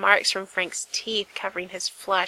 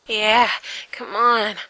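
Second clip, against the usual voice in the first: eager, louder urging; encouraging; 6 dB louder, slower than usual. Acted. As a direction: urge him on with eager breath. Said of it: "Gerard encouraged".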